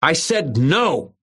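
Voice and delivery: put-on high, slow roar of a big kid; a kid finally roaring back. A narrator's reading. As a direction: bellow the refusal, drawn out. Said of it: "Bigfoot Irwin roared".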